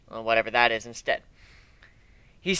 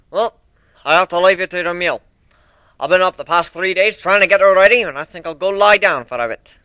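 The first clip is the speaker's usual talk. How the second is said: a lightly voiced old builder, louder, worn out; tired old minotaur; 4 semitones higher, 7 dB louder than usual. Old minotaur leaves the crew to rest, tired but cheerful. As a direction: excuse yourself after three sleepless days.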